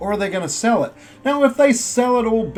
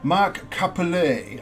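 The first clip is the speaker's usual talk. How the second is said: a half-joking French flourish on "Capelli"; a hint of French accent on "Mark Capelli"; mock French accent; slower than usual. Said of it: "I did that little accent at the end".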